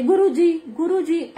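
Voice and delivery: a moderate retold call across the road. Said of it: "ऐसे जोर से आवाज लगाई". (भीड़ में गुरु जी को ज़ोर से पुकारना)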